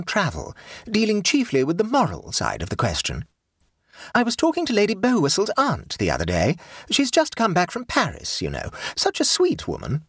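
high, grand society lady; imperious plummy grande dame. Acted. The Duchess speaks.

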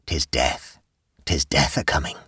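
put-on low, shaky old countrywoman voice; quavering old woman. A narrator's reading. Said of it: "answered the quavering voice".

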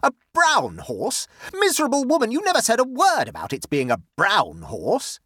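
loud, high-pitched outraged accusation; screaming. A narrator's reading. Bertie accusing Lola over the brown horse, screaming. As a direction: berate her at the top of your voice. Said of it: "screamed Bertie".

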